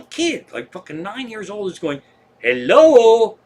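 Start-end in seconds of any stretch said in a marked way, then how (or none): 2.4-3.4 high, loud mocking kid's hello; little girl mocking the boyfriend, high and loud. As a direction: tease him like a cheeky nine-year-old. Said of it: "mocking fucking Vince".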